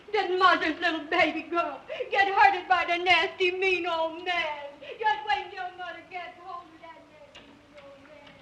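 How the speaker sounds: put-on baby talk. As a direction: coo it like to a puppy. Cooing baby talk to dog.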